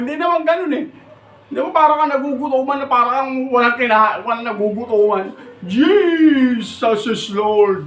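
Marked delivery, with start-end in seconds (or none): 5.6-7.9 slow, louder mocking Jesus is Lord; mock shout. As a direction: drag it out like a starving man crying. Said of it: "Mga ganun-ganun pa eh". (hinahabang sigaw na panggagaya)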